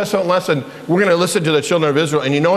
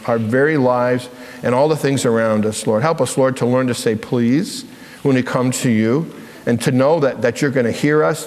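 lower-pitched, measured prayer voice; 4 semitones lower than usual. Real, not acted. Leads the children in prayer.

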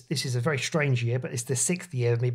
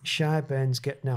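attempted Geordie; 3 semitones lower, slower than usual. Shown as a demonstration. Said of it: "say it in Geordie".

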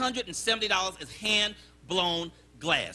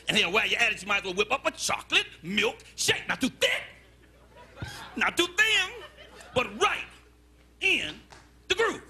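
customer with attitude. Acted. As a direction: build the order up, then pace out the catchphrase. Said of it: "he had an attitude problem".

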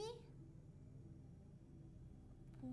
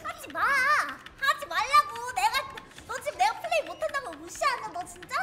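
크고 높게 하지 말라고 끌며 외침; 말리듯 화내며 소리쳐; 5 semitones higher, 11 dB louder than usual. Real, not acted. 공격당하며 화내는 외침. (공격하는 상대에게 크게 화내기)

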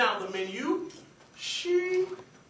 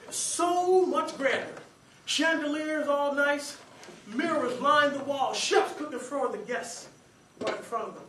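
awed description; slower than usual. Retold or imitated. Awed tour of fancy restaurant.

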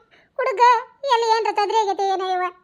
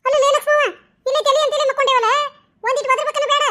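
agitated protest; 4 semitones higher than usual. Acted. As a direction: argue back, flustered. Wife protests to husband. (ಗಂಡನ ಮಾತಿಗೆ ಗಲಿಬಿಲಿಯಿಂದ ಉತ್ತರಿಸುವ ಹೆಂಡತಿ)

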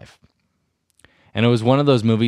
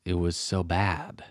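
slow, softened comedian's drawn-out complaint; Chris D'Elia; 6 dB quieter, slower than usual. Retold or imitated. Podcaster panning a movie, lightly copying a comedian's drawn-out delivery. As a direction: stretch it out, lightly borrowing a comic's style. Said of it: "That was really Chris D'Elia-ish".

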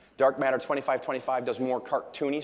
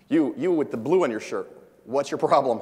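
louder, hammed-up challenge from the stage; mock accusing call-out; 2 semitones higher, 7 dB louder than usual. Comedian singling out a fan in the front row, mock accusing shout. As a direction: point him out and demand an answer. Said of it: "and he goes".

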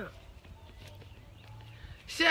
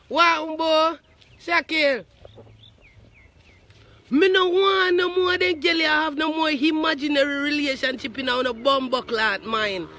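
loud rant; 2 semitones higher, 5 dB louder than usual. Retold or imitated. Ranting loudly at Shaquille.

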